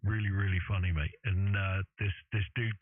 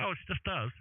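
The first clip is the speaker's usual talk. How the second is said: much higher, softer punchline voice; high-pitched caricature with a deadpan reveal; mock high voice; 10 semitones higher, 3 dB quieter than usual. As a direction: deliver the punchline in a high put-on voice. Couple voiced in retold show.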